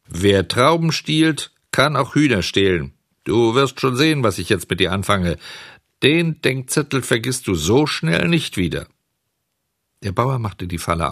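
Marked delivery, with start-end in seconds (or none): 0.1-8.9 drohend. Acted. Bauer droht dem Dieb.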